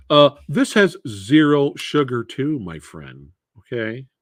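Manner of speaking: lightly put-on movie hero voice; George Clooney Batman. Telling a viewer about zero sugar, light Batman impression. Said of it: "my George Clooney Batman impression".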